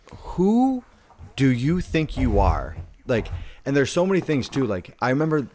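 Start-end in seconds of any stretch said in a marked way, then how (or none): 0.1-2.7 sharp, high-pitched indignant challenge; mock outrage, pitched way up; indignant retort. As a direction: fire it back, offended and incredulous. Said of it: "I was like".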